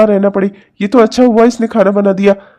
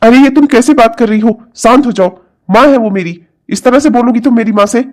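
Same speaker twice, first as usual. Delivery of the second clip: indignant, reproving questions; sharp rebuke; 2 semitones higher, 3 dB louder than usual. Acted. Husband scolding wife for answering his mother, sharp rebuke. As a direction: tell her off, offended for your mother.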